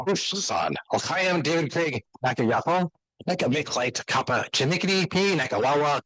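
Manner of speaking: careful learner's reading of "Whoosh, son" and "Nakawawa" in Chinook Wawa. Shown as a demonstration. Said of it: "so I'm gonna read it out loud".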